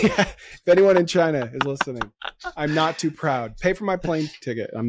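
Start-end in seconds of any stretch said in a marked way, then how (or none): 0.0-2.1 laughing as he jokes along. Real, not acted. Joining the joke about getting hired in China, laughing. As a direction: let the laugh carry the words.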